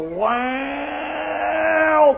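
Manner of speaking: shouted motorbike roar; engine rev. Retold or imitated. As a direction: belt out the revving engine. Budak memulas minyak motor. (ngauman enjin motor dijerit kuat)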